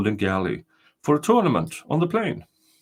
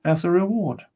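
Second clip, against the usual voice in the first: higher, solemn ghostly spirit; castle spirit; 5 semitones higher than usual. Acted. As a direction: announce yourself as the ancient spirit.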